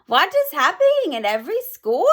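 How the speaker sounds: Grand High Witch quizzing her audience, shouting. Acted. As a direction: bark it at the crowd. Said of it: "shouted the Grand High Witch".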